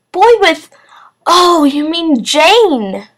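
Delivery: high and loud, taken aback; surprised exclamation. A narrator's reading. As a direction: blurt it out in surprise. Teacher surprised at mistake.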